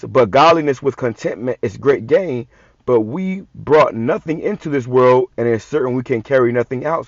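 slow, measured reading of the verse; scripture reading. Acted. Preacher reading First Timothy to his listeners, slow and measured. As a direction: read it out like holy writ, deliberately.

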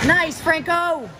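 high, loud, slow cheer. Real, not acted. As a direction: draw out his name proudly. Cheering on a player.

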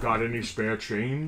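mock-menacing panhandler, low and slow; Darth Vader. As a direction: beg like a talking bank, deep and drawn out. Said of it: "Darth Vader talking bank".

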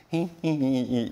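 slow put-on little giggle; imitated child's giggle. Dad imitating daughter's happy giggle at the bus. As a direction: giggle like a pleased small kid. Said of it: "이러고 갔어요".

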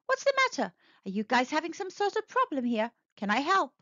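eager helpful prince; kind prince. Acted. Prince asks kindly.

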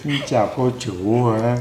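imitating child. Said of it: "Nó nói chuyện nghe mắc cười quá".

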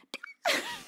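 very high squeak of escaping air; high, soft wheeze of a laugh; airy failed squeal. Real, not acted. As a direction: laugh with no voice left. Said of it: "There's just air's coming out".

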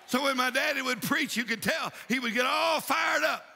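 insistent, driving revival preacher; fired-up preaching. Real, not acted. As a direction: urge the congregation on with conviction. Preaches to the congregation.

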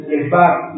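Lebab with the accent on its A; stress on the A. Shown as a demonstration. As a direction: say Lebab, leaning on the final syllable's A. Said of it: "y acento en la, en la A".

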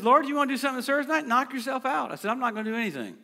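a hint of exasperated sarcasm; ornery challenge. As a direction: toss it off like a sulking kid. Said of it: "'Cause I was frustrated".

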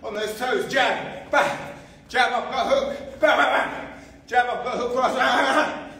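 high, loud, laughing combo calls; excited laughing calls. Real, not acted. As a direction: shout the drill through laughter. Fast pad drill, laughing calls.

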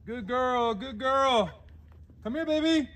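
high, loud sing-song praise; squeaky praising a dog. Real, not acted. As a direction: coo and call the bird in. Praising and calling bird.

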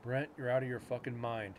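dry, matter-of-fact delivery of a retort; deadpan. Retold or imitated. Friend telling him he's crazy for planning the reenactment, deadpan. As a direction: say it evenly, as an imitated deadpan friend. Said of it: "And his deadpan tone".

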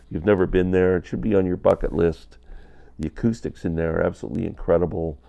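ordinary delivery

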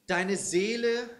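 slow, solemn poetry reading; measured, reverent verse delivery; poem recitation. Acted. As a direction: recite tenderly, line by line.

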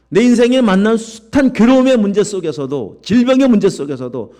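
loud, high, climactic preaching; rising fervent sermon cry; preaching at full force. Acted. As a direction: build to the climax.

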